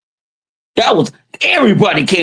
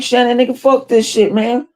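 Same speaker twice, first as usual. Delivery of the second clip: quoting him; 6 semitones higher than usual. Retold or imitated. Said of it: "told him like".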